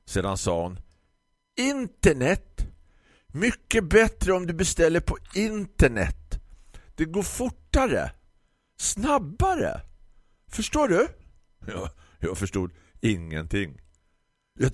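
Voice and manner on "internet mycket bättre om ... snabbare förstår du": high, loud, slow condescending shop lady; grumpy florist. Acted. Florist lectures the customer about ordering online, high condescending voice. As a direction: lecture him like a slow child.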